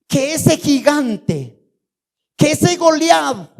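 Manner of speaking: high, drawn-out indignant challenge; slow down and lift the pitch in protest; acted indignation. David challenges the frightened army. (indignación actuada, aguda y alargada)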